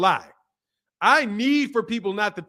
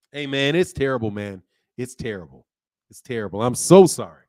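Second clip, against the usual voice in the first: low, hushed mock mourning; mock grief; 8 semitones lower, 4 dB louder than usual. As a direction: lament it like a funeral, tongue in cheek. Mock mourning after a roast.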